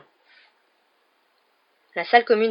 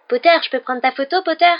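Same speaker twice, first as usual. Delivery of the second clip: high, loud mocking fanboy imitation; Crivet; 10 semitones higher, 7 dB louder than usual. A narrator's reading. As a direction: mimic an eager pest begging, voice pitched right up. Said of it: "en imitant Crivet avec un certain talent".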